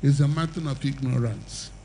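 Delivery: fervent altar-call preaching. Acted. Preacher pleading with the crowd to come forward, fervent. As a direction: urge them forward to Christ.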